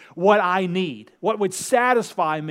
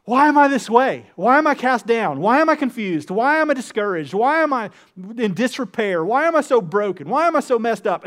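higher and louder at first, then easing; despairing questions; 3 semitones higher, 3 dB louder than usual. Acted. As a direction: pour out a string of despairing whys. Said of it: "they're like".

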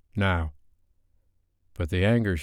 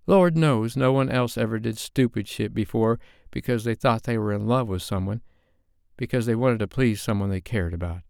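bitter sarcastic rant; 3 semitones higher than usual. Acted. Sophie ranting sarcastically.

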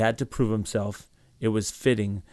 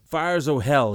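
astounded; 5 semitones higher, 4 dB louder than usual. A narrator's reading. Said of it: "completely astounded".

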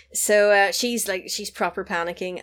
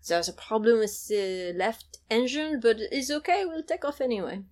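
Kevin Kline; 3 semitones higher than usual. Retold or imitated. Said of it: "Kevin Kline's going like".

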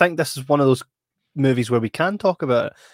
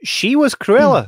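WAS hit high and loud, slow; stress on was; 10 semitones higher, 6 dB louder, slower than usual. Real, not acted. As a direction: lean hard on was. Emphatic praise, loud and high.

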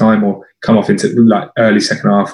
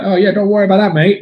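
higher-pitched, light Dutch impression; a hint of Dutch accent, pitched up; 7 semitones higher than usual. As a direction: imitate a cocky Dutchman, lightly. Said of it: "He had this Dutch accent".

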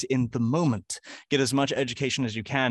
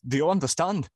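mock Glaswegian; 5 semitones higher than usual. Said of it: "the Glaswegian accent".

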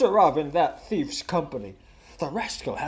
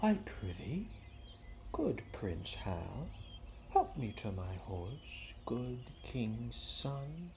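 pleading; 5 semitones lower, 12 dB quieter than usual. Acted. Falstaff begging the prince.

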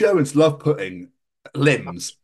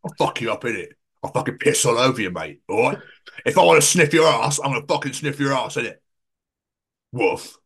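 mock British bulldog. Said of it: "you get the British bulldog, it's like".

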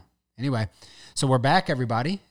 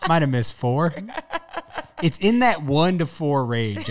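laughing; 4 semitones higher, slower than usual. Real, not acted. Joking escalating count.

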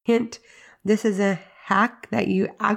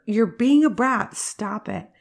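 scolding parent; 3 semitones higher, 4 dB louder than usual. Retold or imitated.

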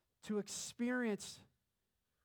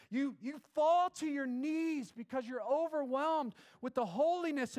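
fervent preaching that builds higher; impassioned preaching; 3 semitones higher than usual. Real, not acted. Preacher urging church on God wanting all of them, impassioned. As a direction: preach with mounting urgency, barely pausing for breath.

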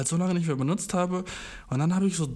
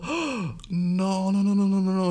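panicked denial; 5 semitones higher, slower than usual. Retold or imitated. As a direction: blurt out a flustered string of no. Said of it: "Und ich war so".

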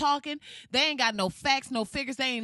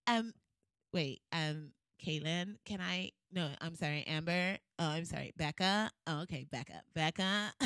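put-on low, soft, fumbling over white girls' names; hint of a white girl voice; 6 semitones lower, 7 dB quieter than usual. Redoing the coffee shop bit as a white girl, soft fumbling voice. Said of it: "Let me do it".

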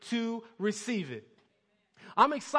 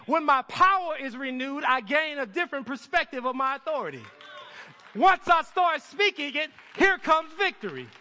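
rising fiery sermon climax; preaching; 5 semitones higher, 6 dB louder than usual. Acted. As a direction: build to a full shout. Preaching builds to full force.

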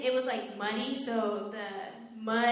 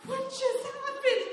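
much higher, slow and laughing; laughing disbelief; 4 dB louder, slower than usual. Retold or imitated. Covered in mud after crash, high laughing disbelief. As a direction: squeal it through laughter in disbelief. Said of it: "And I was like".

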